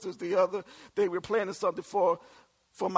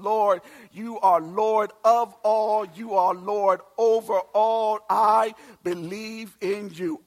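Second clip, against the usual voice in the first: prayer; 3 dB louder than usual. Acted. Voicing a prayer.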